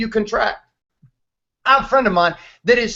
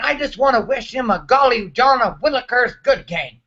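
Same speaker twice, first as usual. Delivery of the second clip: mock classy interview. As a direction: ham up the wholesome nice-guy sound bite. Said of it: "share with everybody what they wanna hear".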